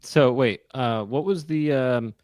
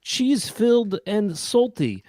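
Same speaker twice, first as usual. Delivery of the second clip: pitchman voice; 5 semitones higher, slower than usual. Acted. Shark Tank pitch as Metzel.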